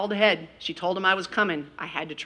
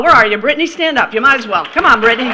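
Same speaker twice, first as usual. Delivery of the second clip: calling out; 5 semitones higher, 12 dB louder than usual. Real, not acted. Calling a graduate to stand.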